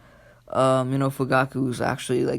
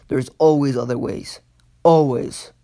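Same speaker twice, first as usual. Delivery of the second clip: firm, louder reproach; acted indignant wife, raised voice; scolding; 5 dB louder than usual. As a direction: scold him, hitting the last word hard. Wife scolds husband after slap.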